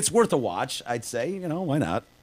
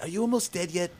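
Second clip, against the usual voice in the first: Stewie voice; 8 semitones higher than usual. Retold or imitated. Voicing Stewie in a retold scene.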